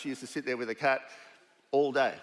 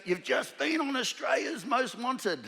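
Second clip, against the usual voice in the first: high, slow mock announcement as Ray; a high, drawn-out gleeful tip-off; Ray's voice; 11 semitones higher, slower than usual. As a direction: deliver the news slowly, relishing it. Ray breaks the news.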